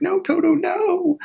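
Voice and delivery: put-on squeaky high little-girl scold. Dorothy scolding Toto in a high, scolding voice.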